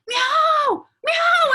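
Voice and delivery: high, loud mock meow; cat meow. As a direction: yowl like a demanding cat. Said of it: "No, she's like".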